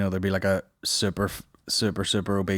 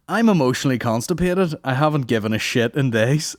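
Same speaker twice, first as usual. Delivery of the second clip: higher, louder hammed-up delivery; mock joke voice; 4 semitones higher, 4 dB louder than usual. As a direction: read it like a cheesy comic. Reading joke mockingly.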